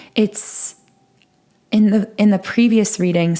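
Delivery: cracked, breaking voice mid-phrase. Speaker relaying a message from a previous reading, voice cracks. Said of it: "I kind of had a voice crack there".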